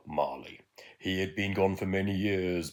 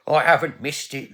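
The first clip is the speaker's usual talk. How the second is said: much louder, higher joyful outburst; laughing joy; 9 semitones higher, 13 dB louder than usual. Acted. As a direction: burst out in delighted relief. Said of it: "laughed Ebenana".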